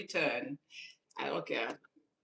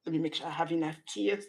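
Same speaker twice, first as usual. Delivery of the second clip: mocking a fake crier; much faster than usual. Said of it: "I'm making fun of those people".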